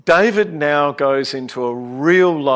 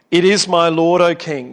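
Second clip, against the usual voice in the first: earnest declaration; 3 semitones higher, 5 dB louder than usual. Retold or imitated. Preacher repeating David's reply to Saul, loud and earnest. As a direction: proclaim it sincerely. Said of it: "this is genuine".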